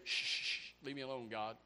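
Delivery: shushing, then low and soft; hushed brush-off. Acted. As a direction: shush God away under your voice. Acts out brushing God off.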